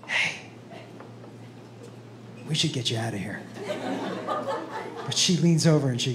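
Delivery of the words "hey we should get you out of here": low, hushed discreet aside; gentle friend. Retold or imitated. Imagined friend leaning over to help, low and soft. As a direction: quietly coax a drunk friend away.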